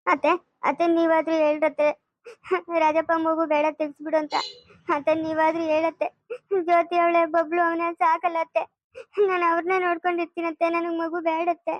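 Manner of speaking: tearful, fading appeal; crying plea. Acted. Daughter-in-law begging her mother-in-law through tears.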